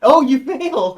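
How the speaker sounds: loud, high, drawn-out gloat; big, slow, delighted exclamation; gleeful crowing. Real, not acted. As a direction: crow slowly over the failure. Game master crows at failed roll.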